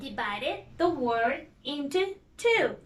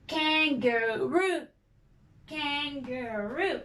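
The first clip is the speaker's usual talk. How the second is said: slow syllables; slower than usual. Shown as a demonstration. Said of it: "Let's clap".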